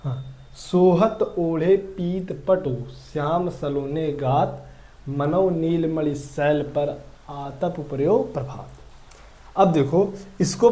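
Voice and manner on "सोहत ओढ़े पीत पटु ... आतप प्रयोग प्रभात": slow, measured reading of a couplet; verse recitation. Acted. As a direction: recite the old verse slowly, word by word. Reads out a verse example. (धीमी लय में दोहा पाठ)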